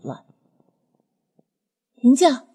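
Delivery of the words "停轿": higher-pitched call to halt; raised-voice command. Acted. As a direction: call out a short order to the bearers. Calls bearers to stop.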